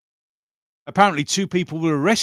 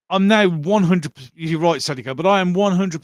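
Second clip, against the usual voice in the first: louder and higher, hitting now; emphatic declaration; 4 semitones higher, 4 dB louder than usual. Real, not acted. Vlogger declaring his conviction to chat, louder and emphatic. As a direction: announce it like a firm verdict.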